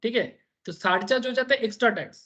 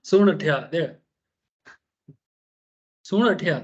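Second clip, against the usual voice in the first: Marwari call; 3 semitones lower than usual. Retold or imitated. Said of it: "क्या बोलेगा मारवाड़ी में?".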